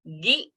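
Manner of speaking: "Gi" said briefly, vowel not held; short gi. Shown as a demonstration. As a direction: keep "Gi" quick.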